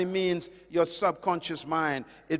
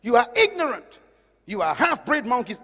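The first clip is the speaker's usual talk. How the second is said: retold angry teacher; 3 semitones higher, 4 dB louder than usual. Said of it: "he was angry".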